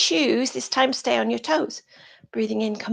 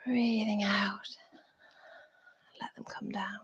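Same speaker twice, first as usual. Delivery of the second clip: soft exhale cue; 10 dB quieter than usual. Shown as a demonstration. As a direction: draw it out softly like a long exhale. Guiding class through an exhale.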